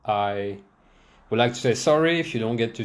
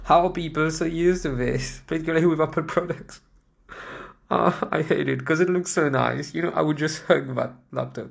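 whiny; 5 semitones higher than usual. Real, not acted. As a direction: whine about it. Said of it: "I sound like a whiny little rich kid".

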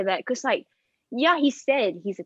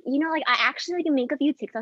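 mocking contestant; 3 semitones higher than usual. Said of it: "And they were like".

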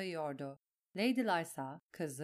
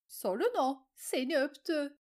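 high, loud, accusing cry; jealous accusation; 7 semitones higher, 4 dB louder than usual. A narrator's reading. Lysa accuses Sansa to Petyr, furious. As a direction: point the finger, furious.

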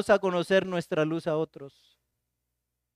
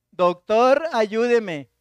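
louder call to the doctor; a neighbor's call, louder; shouting for help; 3 semitones higher, 6 dB louder, much slower than usual. Retold or imitated. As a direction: call out across the street.

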